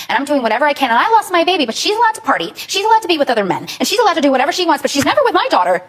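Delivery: indignant, pitch climbing through the list; aggrieved. Real, not acted. Bitter grievance about adoptive mother.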